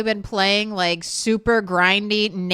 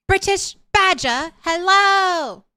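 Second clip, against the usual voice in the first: bad British accent; 4 semitones higher, faster than usual. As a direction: greet the raider in a clumsy mock British accent. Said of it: "terrible attempt at an accent".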